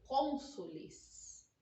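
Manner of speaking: "cônsules" drawn out very slowly, syllable by syllable; slow correct plural. Shown as a demonstration. Teacher modelling the right plural, said very slowly. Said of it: "E não cônsuls".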